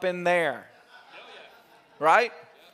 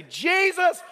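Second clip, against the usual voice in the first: high, raised-voice call to prayer; leading a prayer; 5 semitones higher than usual. Retold or imitated. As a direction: imitate leading a crowd in prayer. Acts out leading room in prayer.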